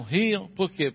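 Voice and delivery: ordinary delivery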